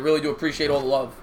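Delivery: ordinary talk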